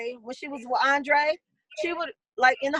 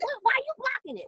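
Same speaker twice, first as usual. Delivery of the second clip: mock indignant; 11 semitones higher, 4 dB quieter, faster than usual. Voicing Lisa, annoyed question.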